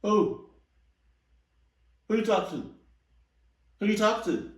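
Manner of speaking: high-pitched, incredulous questioning; acted incredulity. Reactor playing uncle given an order, high incredulous voice. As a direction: squeak it out in mock disbelief.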